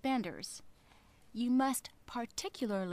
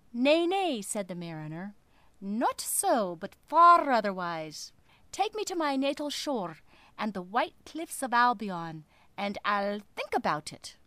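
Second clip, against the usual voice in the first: stubborn sailor voice; 5 dB louder than usual. Acted. Mariner voiced.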